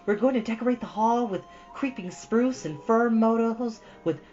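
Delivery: put-on high girlish voice, earnest; a bright young girl making her case; eager Anne. A narrator's reading. Anne arguing for the concert to Marilla.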